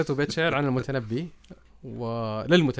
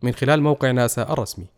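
documentary narration; 5 dB louder than usual. A narrator's reading.

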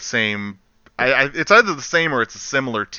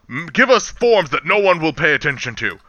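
alien commander quote; 3 semitones higher than usual. Retold or imitated. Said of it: "as one of the trailers pointed out".

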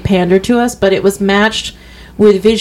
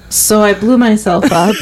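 laughing. Retold or imitated. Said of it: "and he's like".

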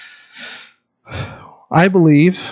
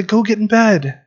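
put-on higher, gentle voice tucking a child in; soothing dad at bedtime; 3 semitones higher than usual. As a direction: reassure a frightened kid it's safe. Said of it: "And then I say".

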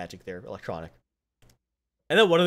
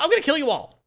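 higher-pitched mock threat; retold threat; 11 semitones higher, 3 dB louder, faster than usual. Heroine threatening to kill them all, mock threat. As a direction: announce it like a cartoon threat.

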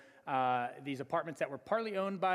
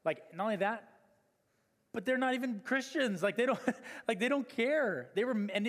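laughing; 8 semitones higher, 3 dB louder than usual. Real, not acted. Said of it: "laughing rant".

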